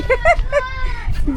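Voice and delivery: high, light real laugh; amused laugh. Real, not acted. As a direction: giggle high at a scared pet. Laughs at the scared dog. (उंच आवाजात खळखळून हसणे)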